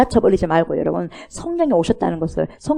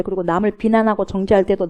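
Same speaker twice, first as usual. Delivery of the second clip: usual speaking voice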